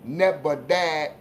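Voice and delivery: slow, drawn-out catchphrase quote; Boo. Acted. Host quoting his friend's catchphrase, slow imitation. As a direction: stretch out both words, imitating a buddy. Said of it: "in the words of my man Boo".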